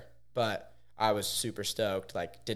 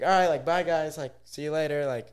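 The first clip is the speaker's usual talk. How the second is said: higher-pitched mock goodbye; imitated breezy farewell; 5 semitones higher, 3 dB louder than usual. Everyone leaving for lunch, imitated high breezy goodbye. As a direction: toss off a lifted, casual farewell.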